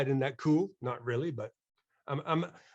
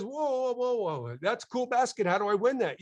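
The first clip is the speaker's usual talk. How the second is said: excited patient; 6 semitones higher than usual. Retold or imitated.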